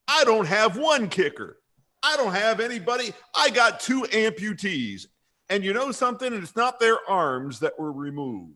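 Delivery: high-pitched exasperated parody coach; Freddie Kitchens. Pretend. Host as coach griping about kickers, high mock indignation. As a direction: complain like a put-upon coach. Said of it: "that Freddie Kitchens said".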